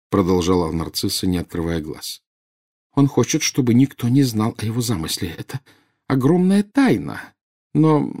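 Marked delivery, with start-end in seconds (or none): 2.9-8.1 anguished, raised voice; tearful. A narrator's reading. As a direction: confide a burden, pitch climbing. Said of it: "Две крупные слезы скатились". (с мукой в голосе)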